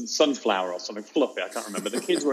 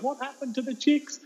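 put-on high, eager kid voice; squeaky pleading child impression; imitated schoolchildren; 12 semitones higher than usual. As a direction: ask it like pupils desperate for the ending. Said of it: "the kids next day like".

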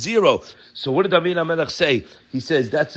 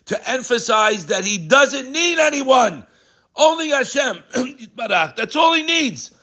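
slow emphasis; 9 semitones higher, slower than usual. Real, not acted.

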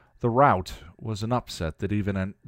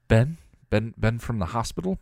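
surprised question; 4 semitones higher, 3 dB louder than usual. Acted. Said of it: "Buffy asked".

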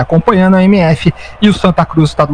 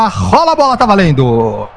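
explosive goal commentary; 3 semitones higher than usual. Real, not acted. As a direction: call the kickoff with a burst of energy. Kickoff call in live broadcast.

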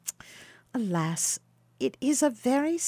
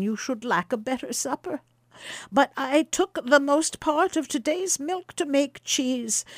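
put-on higher, apologetic old woman with a rueful laugh; old wife Baucis; 4 semitones higher than usual. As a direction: sigh over being poor as a humble housewife. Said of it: "said she".

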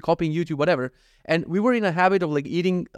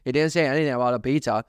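lightly mocking imitation of a wife; comic wife impression, mildly put on; 2 semitones lower than usual. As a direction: exaggerate the wife's complaint a little, for laughs. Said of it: "make her talk like that just to make it funnier".

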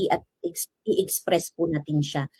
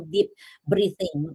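slow, calm; 2 semitones lower, slower than usual. Shown as a demonstration. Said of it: "for you to practice".

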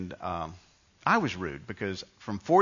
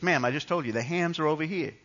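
slightly higher, insistent clerk; mildly exasperated; 5 semitones higher than usual. Retold or imitated. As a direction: imitate a counterman correcting a customer. Retold exasperated counter man.

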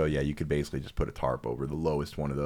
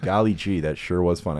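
put-on wholesome 1950s kid; 4 dB louder than usual. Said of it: "I can imagine her saying that".

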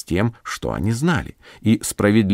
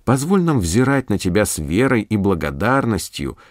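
calm earnest prayer voice. Acted. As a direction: pray it steadily and sincerely. Prayer after sermon. (молитвенно)

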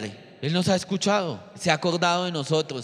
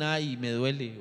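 soft moan; 3 semitones lower, 5 dB quieter, slower than usual. Retold or imitated. Voicing a moan of pain.

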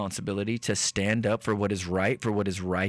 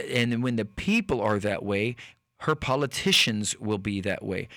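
ordinary talk, nothing marked

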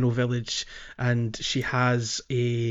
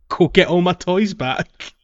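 mock cross NPC; 4 semitones higher than usual. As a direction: mildly scold Link with a deadline. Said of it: "very cross at Link".

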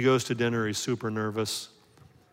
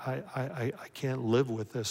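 put-on guilty boy; 4 dB quieter than usual. Guilty boy thinks aloud.

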